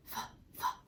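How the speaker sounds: breathy hissed f sounds. Shown as a demonstration. Teacher modelling the f sound for little kids, hissed. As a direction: push out a soft f hiss. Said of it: "get your F sound ready".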